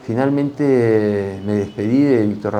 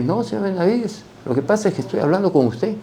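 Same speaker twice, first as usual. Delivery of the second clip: quoting the British professor; 9 semitones higher, faster than usual. Retold or imitated. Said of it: "Y me dice".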